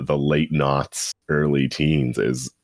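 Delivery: ordinary delivery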